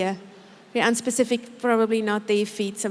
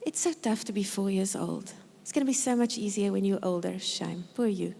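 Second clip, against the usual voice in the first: softer, lower mock pity; soothing a four-year-old's meltdown, softly; soft sympathy; 4 semitones lower, 5 dB quieter than usual. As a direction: murmur gentle pity to yourself. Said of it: "saying to myself".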